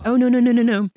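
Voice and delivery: loud, high, firm no-no-no; retold loud protest of no; emphatic refusal. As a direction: shut the idea down hard. Refusing brother's request at dinner.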